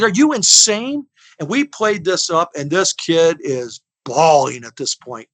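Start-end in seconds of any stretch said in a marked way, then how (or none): 0.0-1.1 high, loud and slow, mock outrage; outraged shout. Friend pretends to be outraged at the cop, slow high shout. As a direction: bellow it at the officer like he's lost his mind.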